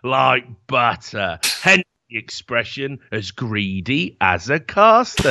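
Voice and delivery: very slow, lightly voiced gangster line; mock Brick Top quote. Riffing a gangster quote about greedy casters, slow and deadpan. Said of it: "It was about casters going".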